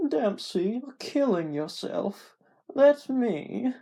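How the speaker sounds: urgent plea. Acted. Narrator pleads with dying friend.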